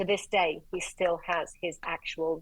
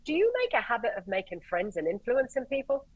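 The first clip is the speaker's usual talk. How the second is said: sarcastic; 5 semitones higher, 3 dB louder than usual. Retold or imitated. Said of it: "with the sarcasm".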